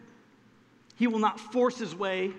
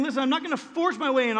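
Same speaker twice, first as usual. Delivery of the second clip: higher, louder, fast earnest appeal; urgent God's plea; 4 semitones higher, 4 dB louder, faster than usual. Retold or imitated. God knocking at the heart's door, urgent and earnest. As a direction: press the invitation quickly. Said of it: "He's saying".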